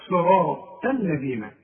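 الذين with thin l and tongue-tip dh; tongue between teeth for the dh in الذين; light lam, tongue out. Shown as a demonstration. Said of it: "وطلع لسانك في الدال". (الذين بلام مرققة وذال لسانية)

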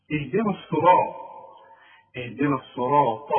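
الصراط with a heavy r; full emphatic r in الصراط. Shown as a demonstration. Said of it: "الراء إيه؟ مفخمة". (الصراط براء مفخمة)

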